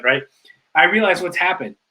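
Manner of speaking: ordinary delivery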